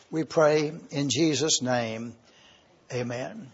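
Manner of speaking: hushed, reverent closing prayer. Acted. Preacher praying before the study in a hushed voice.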